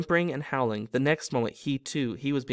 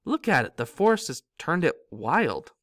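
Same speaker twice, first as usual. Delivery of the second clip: delighted; 3 semitones higher than usual. Acted. Ron to Harry about the car, delighted. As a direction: marvel at it happily.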